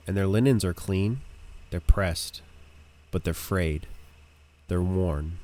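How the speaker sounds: understated, deliberate scene description; game master narration. A narrator's reading. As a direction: reveal each detail with weight.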